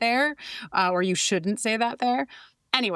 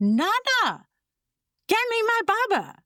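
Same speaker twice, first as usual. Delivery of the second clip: put-on very high, somewhat angry little toddler voice; 13 semitones higher than usual. Retelling a toddler calling from upstairs to Nana: imitating a toddler, a bit angrier. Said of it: "a little bit angrier".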